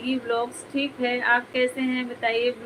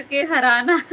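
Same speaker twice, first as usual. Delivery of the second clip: words breaking into a laugh; 4 dB louder than usual. Real, not acted. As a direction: laugh through the punchline. Laughs at own punchline. (हंसी में टूटते शब्द)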